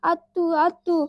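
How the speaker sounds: put-on slow, loud little-girl call; drawn-out loud child's call; toddler calling auntie. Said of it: "म्हणी कशी काकीला".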